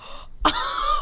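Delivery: high squeal of a laugh; short, high amused yelp. Real, not acted. Cohost reacting to the mistaken drink, high squealed laugh.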